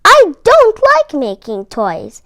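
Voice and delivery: lightly voiced complaining elf; whiny elf. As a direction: protest like a stubborn young elf. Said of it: "answered Hermie".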